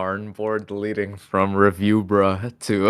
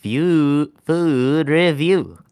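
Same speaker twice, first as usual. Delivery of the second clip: slow, drawn-out reviewer sign-off; imitating the food reviewer; 4 semitones higher than usual. Showing a friend how the reviewer says it, slow and drawn out. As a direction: stretch out review like the YouTuber. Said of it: "how does he say that".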